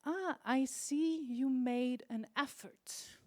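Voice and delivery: slow, even acknowledgement; calmly note the effort, no gush; carefully neutral praise; measured approval. Shown as a demonstration. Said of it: "what you should say is".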